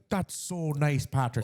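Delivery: lightly put-on Irish accent; mock Irish. Podcaster as Irish people humoring the saint, mock Irish accent. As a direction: thank him in playful Irish. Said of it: "Irish people were like".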